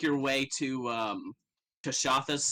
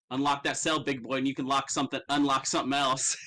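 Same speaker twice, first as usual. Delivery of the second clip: flirty line. Acted. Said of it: "and she goes".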